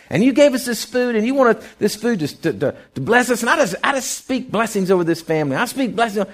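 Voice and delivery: blessing the family's meal in a lifted preaching voice; preaching prayer voice. Retold or imitated. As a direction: pray it out like a preacher over the table. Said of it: "I started talking like this".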